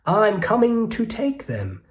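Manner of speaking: high, loud eager yell; greedy yell. Acted. Rat yelling into the cave, high and loud. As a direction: shout it as you rush in. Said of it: "the rat thief yelled".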